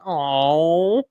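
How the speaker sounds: long drawn-out rising "oh"; collective dismay. Retold or imitated. Host imitating everyone hearing of a star's death, dismayed. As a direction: let one "oh" stretch out in dismay. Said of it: "the entire world just, like, collectively, like, went".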